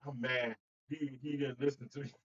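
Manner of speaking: a hint of a grumpy husband; sulking husband imitation. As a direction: play the pouting husband who won't leave. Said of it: "you sound like a husband and wife".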